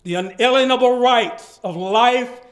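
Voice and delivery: dramatic reading. Shown as a demonstration. Reading Martin Luther King's speech aloud with full pathos. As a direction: deliver the speech with pathos and gravity. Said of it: "I would like to capture some of the pathos".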